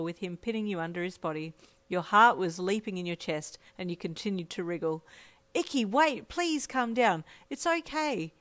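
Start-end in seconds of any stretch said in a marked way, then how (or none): 5.5-8.3 raised, pleading reassurance; soothing. A narrator's reading. Friend calming a struggling girl, soothing plea in raised pitch. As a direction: plead gently but higher-pitched. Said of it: "His soothing voice slowed your movements".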